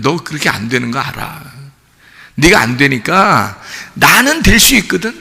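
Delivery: a hint of a forgiving father; gently voiced God.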